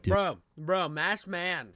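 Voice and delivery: loud excited call for attention. Real, not acted. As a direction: shout it across the room to grab a friend. Calling out to get attention.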